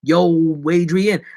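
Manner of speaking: loud slurred boxer impression; lightly voiced punch-drunk tough guy; Sylvester Stallone. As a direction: call out like a movie boxer. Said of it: "talk like Sylvester Stallone".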